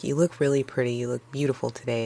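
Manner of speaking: soft, reassuring compliment; softly calm her nerves. Retold or imitated. Boyfriend to anxious girlfriend, soft and reassuring. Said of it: "Ben reassures her".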